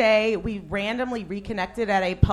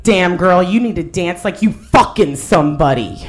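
imitating bar lady; 2 semitones lower, 6 dB louder than usual. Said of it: "a lady came up to me".

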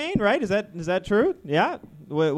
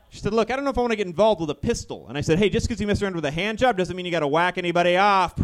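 hammed-up joke-teller, lively and raised; gun doing stand-up; 3 semitones higher, 4 dB louder, faster than usual. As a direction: deliver the punchline as a gun doing club comedy. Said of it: "my impression of a gun doing stand-up comedy".

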